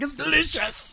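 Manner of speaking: imitating teary excitement. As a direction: gush it like it moved you. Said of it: "your eyes welled up like you were just so excited".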